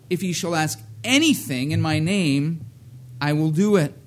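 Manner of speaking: loud, solemn King James reading; scripture reading. Acted. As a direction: proclaim the verse to the congregation. Reads King James scripture aloud.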